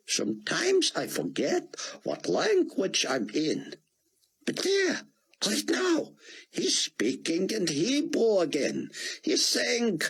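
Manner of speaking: put-on gentle surprise from an elderly scholar; voiced old rabbi. Ben Judah explains the preaching.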